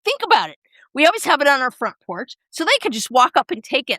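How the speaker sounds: hammed-up worried husband; imitating husband. Husband voiced in retold argument.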